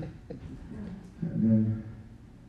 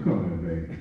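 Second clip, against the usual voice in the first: tender call; 5 semitones lower than usual. Retold or imitated. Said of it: "I said".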